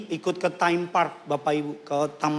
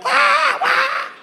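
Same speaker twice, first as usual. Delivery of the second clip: very high, loud ride scream; hammed-up falsetto yell; mock screaming; 7 dB louder than usual. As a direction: imitate thrill-seekers shrieking on a coaster. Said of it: "cuman buat teriak-teriak".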